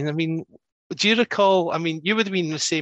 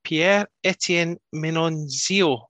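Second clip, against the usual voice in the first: attempted French accent; 3 semitones higher, much slower than usual. Real, not acted. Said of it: "I apologise in advance for, um, my French accent".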